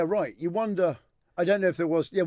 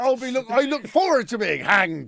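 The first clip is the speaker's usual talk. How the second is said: mock eager pirate; 5 semitones higher than usual. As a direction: boast about the gallows like a mad pirate.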